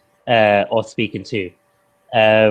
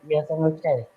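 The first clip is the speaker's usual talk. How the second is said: lighter, higher London voice; a light London reply, falling softer; London accent; 4 semitones higher, 6 dB quieter than usual. Shown as a demonstration. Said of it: "my voice gets a little bit lighter".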